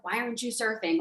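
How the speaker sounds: soft, judging mutter; a quiet, let-down ask; disapproving. Shown as a demonstration. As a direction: let it drop, faintly scolding. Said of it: "didn't say in a way of like".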